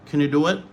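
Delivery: "Can" squashed to kn; reduced form. Shown as a demonstration. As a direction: run "Can you" together quickly. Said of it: "Donc ça, c'est réduction".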